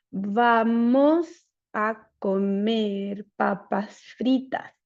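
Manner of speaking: very slow, flat "Vamos a comer papas fritas"; every syllable level and drawn out; a child with apraxia, slow and monotone. Shown as a demonstration. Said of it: "un habla monótona y plana".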